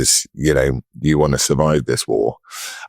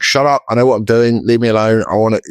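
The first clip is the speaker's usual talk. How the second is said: petulant mock outburst, pitched up; Lewis Hamilton; 6 semitones higher, 3 dB louder than usual. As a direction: imitate a sulky driver snapping at his engineer. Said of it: "And he's like".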